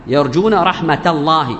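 رحمة joined to الله with a spoken t; linked t. Shown as a demonstration. Teacher showing the joined form, رحمة linked by a t. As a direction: say رحمة الله as rahmata llahi, t sounded. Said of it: "تنطقها تاء".

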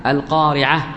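القارعة ending in h, no t; final h when pausing. Shown as a demonstration. Teacher showing the stop on a tied ta, القارعة ending in h. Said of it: "الوقوف عليها بالهاء".

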